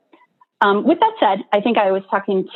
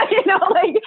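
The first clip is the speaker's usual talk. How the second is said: still laughing; 11 semitones higher than usual. Real, not acted. Still laughing after cookie story.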